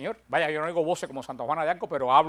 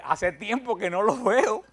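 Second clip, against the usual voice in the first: laughing pretend reunion; 4 semitones higher, slower than usual. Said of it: "Y le dije".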